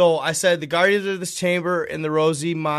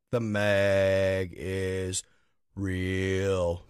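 dramatic trailer voice; 8 semitones lower, 5 dB quieter, much slower than usual. Acted. Dramatic mock declaration.

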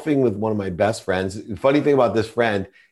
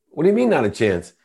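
quick, higher-pitched protest; taken aback; 6 semitones higher, faster than usual. Retold or imitated. Man to friend refusing the Masters trip, taken aback. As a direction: question it in quick disbelief.

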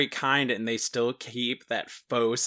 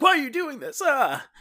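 high, frantic cry of fear; panicked plea; 14 semitones higher, 4 dB louder than usual. Retold or imitated. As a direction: plead in sudden terror, voice jumping up. Family pleading with the killers.

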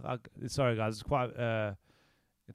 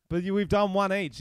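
possessive whining; 6 semitones higher, 5 dB louder than usual. Real, not acted. Protesting it's not his turn.

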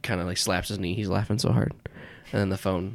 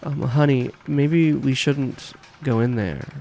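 coaxing; 4 semitones higher, 4 dB louder, slower than usual. Pretend. Character coaxing partner.

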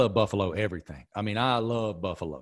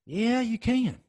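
emphatic disagreement; 13 semitones higher, slower than usual. Real, not acted. Playful rebuttal about chicken.

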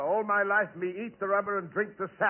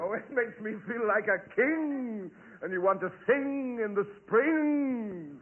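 overacting; 3 semitones higher than usual. Native telling of his rubber diet, overacting. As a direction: stretch the rhyming words theatrically. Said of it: "I hear Lawton overacting".

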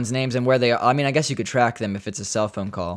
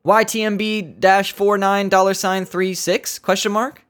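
robotic text; 7 semitones higher than usual. Retold or imitated. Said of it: "Sometimes I text people like".

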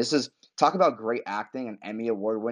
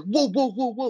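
mock surprise; 11 semitones higher, 3 dB louder than usual. Tommy's shocked reaction again.

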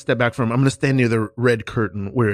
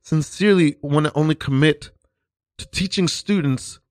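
hammed-up earnest teacher; 3 semitones higher than usual. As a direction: overplay the devoted teacher. Teacher asks Stan for support.

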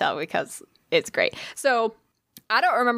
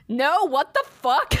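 laughing disbelief; 13 semitones higher, slower than usual. Retold or imitated. Kevin's laughing disbelief retold.

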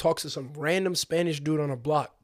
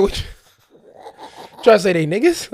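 slow, disbelieving challenge; pressing the kid on what he means, drawn-out; incredulous; 5 semitones higher, 8 dB louder, much slower than usual. Retold or imitated. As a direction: drag it out, calling him on it. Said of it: "I'm like".

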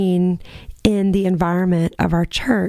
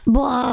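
higher mock wail, held briefly; mock bawling; 4 semitones higher than usual. Friend recalling tears in church, mock bawling. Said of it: "we were just bawling our eyes".

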